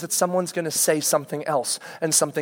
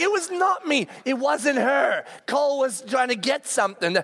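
much higher indignant denial; protesting girl; 7 semitones higher than usual. Retold or imitated. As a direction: push back on the accusation. Daughter protests.

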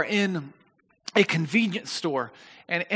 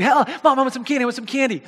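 rapid, higher-pitched imitation of a begging kid; nagging child; 5 semitones higher, much faster than usual. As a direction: pester mom like a six-year-old, rushed and insistent. Kid nagging mom for candy.

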